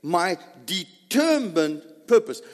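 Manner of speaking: "determined" drawn out and punched; slow, weighty stress on "determined"; emphatic. Shown as a demonstration. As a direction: lean slowly and hard on "determined". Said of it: "that adds emphasis on this whole thing".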